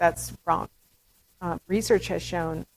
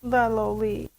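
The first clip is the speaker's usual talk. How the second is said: intonation demo; 3 semitones higher, slower than usual. Shown as a demonstration. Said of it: "so intonation".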